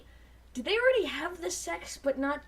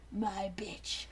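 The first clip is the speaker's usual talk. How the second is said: whisper; 5 semitones lower, 7 dB quieter than usual. Acted. Teasing punchline.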